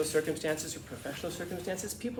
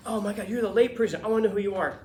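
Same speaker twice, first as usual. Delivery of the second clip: higher-pitched, hammed-up fascination; raised-pitch mock excitement; mock gushing; 5 semitones higher, 4 dB louder, faster than usual. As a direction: gush as if meeting someone famous, in mockery. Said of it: "look at them and go".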